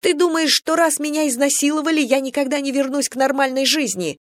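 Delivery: put-on wounded girl shrieking at the general; voice breaking into a shriek. A narrator's reading. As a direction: voice cracking up high in hurt. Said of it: "Голос Венки сорвался на визг".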